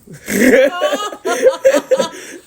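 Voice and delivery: high burst of real laughter; a big high laugh at the name mix-up. Real, not acted. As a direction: break up laughing at the story. Barista's mix-up cracks him up.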